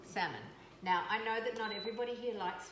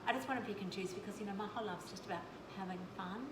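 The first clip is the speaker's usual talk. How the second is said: mocking teen whine; 4 semitones higher, 3 dB quieter, faster than usual. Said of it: "here's my kid who goes".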